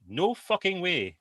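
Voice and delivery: mock outraged teen; outraged daughter. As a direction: spit out the refusal. Daughter refuses, voiced.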